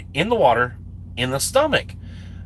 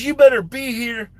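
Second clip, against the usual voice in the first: higher, insistent mock order; retold firm warning; 7 semitones higher, 3 dB louder than usual. Instructor tells him to return early, retold warning.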